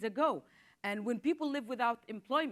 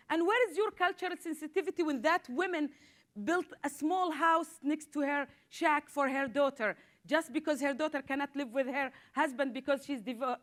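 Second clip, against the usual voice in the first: indignant; 3 semitones higher than usual. Real, not acted. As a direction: press the accusation, outraged. Indignant challenge to police.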